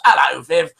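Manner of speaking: mock Essex accent, Hello said as 'ello; terrible Essex accent. Host showing how a listener talks, mock Essex accent. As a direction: badly imitate an Essex greeting, h dropped. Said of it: "Terrible Essex accent".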